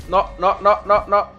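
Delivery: laughing "no no no". Real, not acted. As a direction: laugh through the protest. Laughing at mishap.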